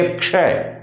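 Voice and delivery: "क्षय" with a light, half क and a full श; light k sound. Shown as a demonstration. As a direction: say "क्षय" keeping the क soft and short. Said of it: "क को हल्का लेना पड़ेगा". ("क्षय" हल्के क के साथ)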